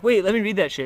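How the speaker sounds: high, loud mock protest; mock indignant demand. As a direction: play the outraged opponent. Opponent demanding to read card.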